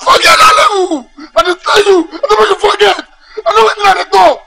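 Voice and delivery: tearful shouting plea; crying plea. Acted. Friend pleading with his guy not to forget, crying shout. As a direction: beg him through the tears.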